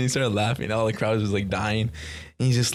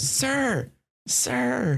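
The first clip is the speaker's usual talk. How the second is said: much higher put-on white man voice; imitating Chappelle's high white man voice, calling sir; 13 semitones higher than usual. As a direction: squeak out a polite white guy. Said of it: "His white man voice is ins-, is incredible".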